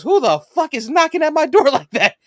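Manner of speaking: an annoyed brother shouting at the door; angry yell. Retold or imitated. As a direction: bark it at whoever is knocking. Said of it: "And he goes".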